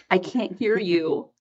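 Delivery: slow, measured "can't hear you"; retold slow reply. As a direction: draw it out for a child who keeps whispering. Retold reply to whispering child.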